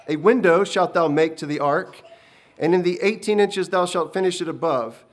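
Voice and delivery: loud, booming divine instructions; a commanding heavenly voice; voice of God. Acted. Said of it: "as the voice continued".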